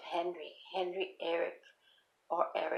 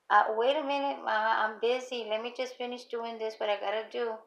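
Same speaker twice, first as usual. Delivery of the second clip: higher-pitched, mildly harried retold reply; busy mother; 4 semitones higher than usual. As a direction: imitate putting off a calling child. Acted busy mother answering daughter.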